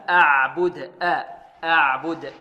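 أعبد with thin ع and ب; careful, unthickened أعبد; light tarqiq. Shown as a demonstration. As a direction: say أعبد slowly, keeping every sound light. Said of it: "كذلك ترقيق العين والباء".

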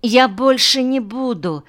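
put-on high little-girl apology; embarrassed girl. A narrator's reading. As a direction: promise like a blushing schoolgirl. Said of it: "поднялась покрасневшая Света".

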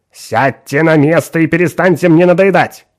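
angry. Acted. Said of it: "рассердился учёный".

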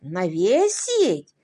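slow, choked echo of навесить; strained, forced out. Acted. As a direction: squeeze out "Навесить?" with difficulty. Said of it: "с трудом выдавил из себя Уолтерс".

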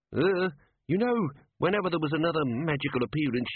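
small creature owning up nervously; nervous gnome. A narrator's reading. Gnome confessing to Ridcully, nervous and high. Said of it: "it said".

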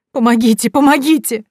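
loud, high, rising panic; cry for help. A narrator's reading. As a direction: scream for help. Fell off bed crying help. (отчаянный крик о помощи)

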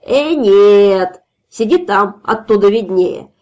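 put-on loud drunk refusal; shout. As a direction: bark the refusal down at him. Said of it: "потом закричал".

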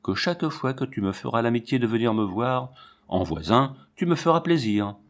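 each word leaned on with weight; pressing on the words. A narrator's reading. Invitation to the neighbour, words pointedly pressed. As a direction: she lingers on her words to the tamer, stressing them. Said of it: "en appuyant sur les mots".

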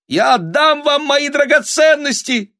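very high, loud desperate offer; thin-voiced cry. A narrator's reading. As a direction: cry out thinly over the crowd. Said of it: "крикнула тонким голосом". (крик тонким голосом)

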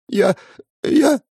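put-on a girl close to tears, stammering; trembling voice. A narrator's reading. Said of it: "Голос девушки задрожал". (дрожащий голос)

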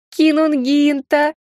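нараспев, медленно и ласково; протяни имя, как кошка мурлычет; промурлыкала. A narrator's reading. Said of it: "протянула она, как промурлыкала". (Ирина мурлычет министру, протяжно и кокетливо)

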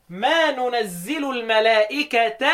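slow recitation, الملائكة ending "-kata"; fatha ending on الملائكة. Shown as a demonstration. Teacher shows the object case, الملائكة ending in ta. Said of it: "وانصب الملائكة المرفوع".

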